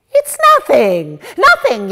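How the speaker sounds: loud, dismissive shout; Mama Yenta yelling to calm the room. Acted. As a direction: shout down the panic. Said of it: "yells Mama Yenta".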